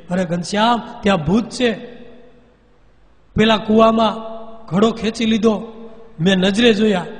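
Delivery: mother warning her son about the ghosts; frightened telling. A narrator's reading. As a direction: blurt it out still shaking. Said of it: "ગભરાઈ ગયા, બી ગયા".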